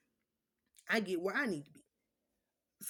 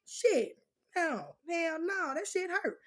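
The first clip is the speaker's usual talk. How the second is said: loud pained complaint; 8 semitones higher, 4 dB louder, much slower than usual. Retold or imitated. Remembering the painful needle.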